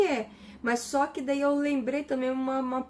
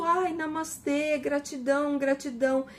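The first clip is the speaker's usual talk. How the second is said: mock namastê; 3 semitones higher than usual. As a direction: parody the overly zen person. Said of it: "muito namastê".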